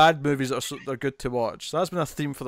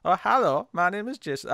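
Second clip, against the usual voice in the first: Tommy Wiseau-ish voice; 4 semitones higher than usual. Retold or imitated. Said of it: "what voice am I even doing".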